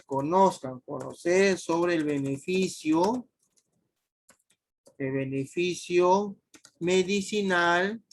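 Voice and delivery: measured, drawn-out dictation; slow dictation. Real, not acted. Teacher filling in the research purpose, slow dictation. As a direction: spell the phrase out slowly for note-takers. Dictates the answer while writing it.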